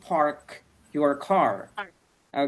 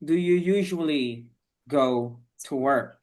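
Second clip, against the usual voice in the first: slow teacher model; slower than usual. Shown as a demonstration. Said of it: "So you're going to tell me".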